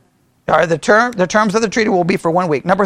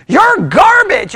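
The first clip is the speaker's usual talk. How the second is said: high, slow scornful shout of garbage; mock contempt; 9 semitones higher, 4 dB louder, slower than usual. Imitating critics insulting him, slow high scornful shout. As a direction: spit out the insult in mock disgust. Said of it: "the futurists like".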